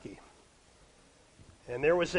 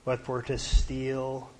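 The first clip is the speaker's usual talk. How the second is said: slow, solemn reading of the verse; scripture reading; slower than usual. Acted. Preacher reading John to young people, slow and solemn. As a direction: read it out weighty and unhurried.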